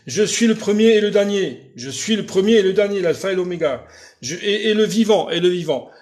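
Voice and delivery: declaiming Revelation to Tina; scripture reading. Acted. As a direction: proclaim the verse like a preacher. Reads Revelation verse aloud.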